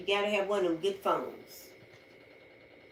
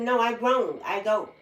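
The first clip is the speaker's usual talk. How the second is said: defiant retort; 2 semitones higher, 5 dB louder than usual. Retold or imitated. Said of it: "I said".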